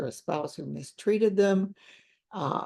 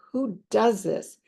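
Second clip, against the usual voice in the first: higher, pleading, half-sobbed questions; imitating a crying client; 5 semitones higher than usual. Counselor voicing a crying client begging for answers, mildly tearful. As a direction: echo her distress, voice lifted and strained. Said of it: "still crying".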